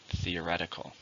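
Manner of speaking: Theoretical, with the weight on "o"; stress on the second syllable. Shown as a demonstration. Teacher modelling the word for learners, stress on "o". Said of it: "stress on the second".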